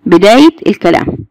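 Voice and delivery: "بدايه الكلام" split word by word; word-by-word emphasis. Shown as a demonstration. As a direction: say "بدايه", pause, then "الكلام". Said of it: "موجود فين؟".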